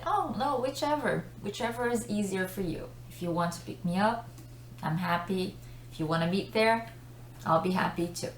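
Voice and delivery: soft and agreeable, happy either way; polite, easygoing. Shown as a demonstration. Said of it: "normally sounds more polite".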